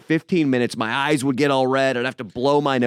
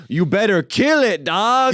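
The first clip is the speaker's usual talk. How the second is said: put-on Latino accent; 6 semitones higher, 3 dB louder than usual. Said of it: "this guy's like".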